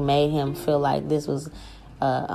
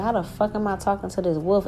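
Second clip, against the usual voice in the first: higher voice, retelling the shock; amazed disbelief; 5 semitones higher than usual. Retold or imitated. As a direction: recall your own bewilderment. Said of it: "And I was like".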